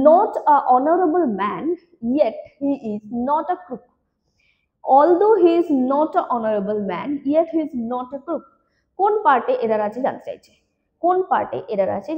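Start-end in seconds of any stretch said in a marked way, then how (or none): 0.1-3.8 very slow, word by word sentence read; slow dictation. Shown as a demonstration. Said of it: "next বলছে". 4.8-8.4 very slow, clear sentence read; slow dictation. Shown as a demonstration. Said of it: "next বলছে".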